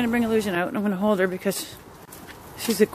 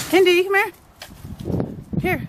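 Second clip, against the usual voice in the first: calling the dog; 9 semitones higher than usual. Real, not acted.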